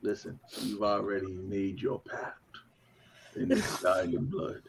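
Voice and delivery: low, slow, hushed demonic warning; whispering demon. Pretend. Demon tells someone their pact is sealed, whispering demon. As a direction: whisper it slowly like a sinister dealmaker. Playing the crossroads demon for laughs.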